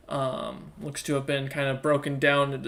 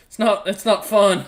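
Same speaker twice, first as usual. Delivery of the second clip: put-on louder, higher whiny kid; sulky child voice; 4 semitones higher, 8 dB louder than usual. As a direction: protest like a cranky child. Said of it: "looks at you and goes".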